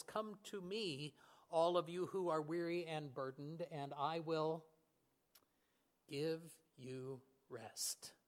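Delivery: slowing and softening to a hush by the end; tender invitation. Acted. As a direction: offer rest gently, like a comforting voice. Quoting Jesus' gentle invitation.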